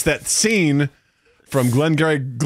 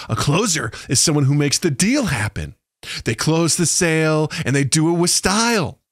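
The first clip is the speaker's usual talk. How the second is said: put-on baby talk; 2 semitones lower than usual. Shown as a demonstration. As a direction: talk down to a small child. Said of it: "pretending that you're talking to children".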